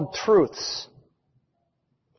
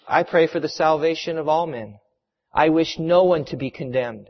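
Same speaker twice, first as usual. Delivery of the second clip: calm reply; 2 semitones lower than usual. Acted. Margaret's calm reply to soldiers.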